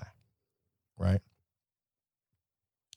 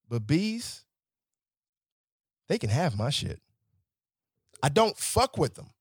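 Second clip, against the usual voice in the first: ordinary delivery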